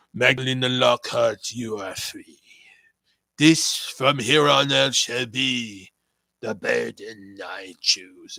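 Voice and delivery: starts as a hushed whisper, then booms out slow and loud; menacing villain proclamation, whispered then roared; Lucy Wilde impression. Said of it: "my Lucy Wilde impression".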